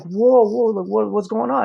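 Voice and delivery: high, loud startled protest; retold startled alarm. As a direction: react as if caught off guard. Startled reply in retold confrontation.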